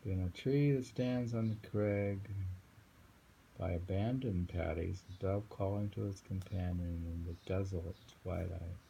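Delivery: just read it through gently; calm poem reading. Acted.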